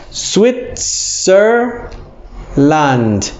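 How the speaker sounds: Switzerland broken into Switzer and land; Switzer, pause, land; split into parts. Shown as a demonstration. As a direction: Switzerland said in two pieces. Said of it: "syllable split demo".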